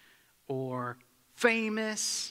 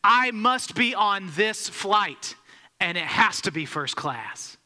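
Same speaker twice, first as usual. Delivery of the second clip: a louder, indignant mock demand; demanding passenger; 3 semitones higher, 4 dB louder, slower than usual. Frustrated traveler demanding at the gate, mock indignant. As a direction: slam it down and insist, half-acted. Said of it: "slammed his boarding pass, and said".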